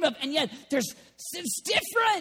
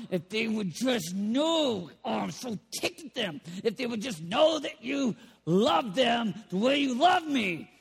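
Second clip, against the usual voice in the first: earnest prayer; 5 semitones lower than usual. Acted. Jesus praying to the Father.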